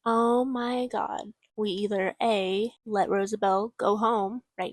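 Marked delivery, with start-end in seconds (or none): 0.1-1.3 stunned. Pretend. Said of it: "the best thing to do after hearing a sentence like that is to be like".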